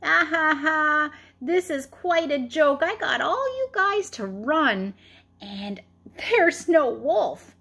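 a hint of laughing gloat; lightly laughed-through teasing; mock laughing. Shepherd boy teasing the fooled villagers, mild mock laughter. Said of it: "laughing and rolling and saying".

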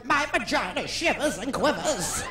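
slowed, a hint of Hepburn; lightly voiced old movie star; mock Hepburn; Katharine Hepburn. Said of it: "Katharine Hepburn".

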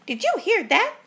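high, loud startled question; shocked ghost sister. A narrator's reading. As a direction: ask it in high-pitched alarm. Ghostly sister alarmed at bear's voice.

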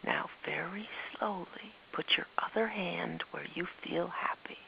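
quiet coaxing whisper; speaking quietly. Acted. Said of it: "speaking quietly".

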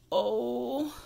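long, drawn-out "oh"; breathed "oh". A narrator's reading. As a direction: breathe out the "oh" gently. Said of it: "and breathed".

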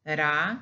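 ra with one quick tongue tap; single R syllable. Shown as a demonstration. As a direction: tap the r lightly in ra. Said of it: "that's the single pronunciation of one only".

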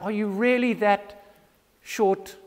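exasperated disbelief, dragged out then rushed; mock-exasperated, as if to forgetful followers; frustrated Jesus. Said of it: "You can imagine Jesus' frustration".

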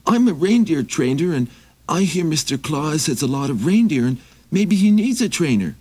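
high, pleading little traveler; high begging wanderer voice; Maxie voice. Acted. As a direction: raise the pitch and ask humbly.

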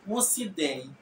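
"Wosi den" as Twi says it; Twi accent. Shown as a demonstration. Teacher repeating the Twi example, Twi accent. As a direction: Asante Twi "Wosi den", even and regular. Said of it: "Twi will say".

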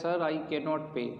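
slow, even reading of the example. Shown as a demonstration. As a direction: read it out slowly for the class. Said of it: "teacher reads example sentence".

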